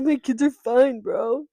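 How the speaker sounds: Damon. Pretend. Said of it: "And then Damon'd be like".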